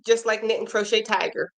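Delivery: words with a burp in them. Real, not acted. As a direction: burp through the end of the line. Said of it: "sorry, I did burp".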